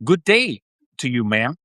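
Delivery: attempted American South accent on a polite greeting; lightly put-on Southern American accent. Shown as a demonstration. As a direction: try a Southerner's accent, addressing a ma'am. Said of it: "I sound like I'm from the South".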